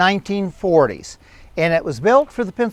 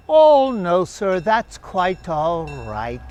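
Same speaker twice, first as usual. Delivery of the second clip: put-on British accent; 4 semitones higher than usual. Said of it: "delightful British accent".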